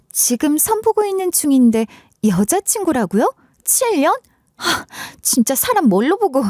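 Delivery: haughty, high-pitched indignation; offended disbelief. Acted. Insulted woman on a blind date.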